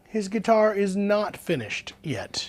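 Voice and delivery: hushed confession; whisper. Real, not acted. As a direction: whisper it like a secret. Confessing mistake to viewers.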